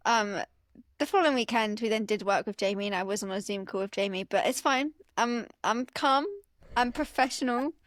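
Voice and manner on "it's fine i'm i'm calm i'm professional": measured, mock-composed reassurance with pauses between phrases; feigned calm. Fan insisting she is professional on a call with her idol, feigned calm. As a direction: pretend to keep it together. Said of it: "Internally freaking out".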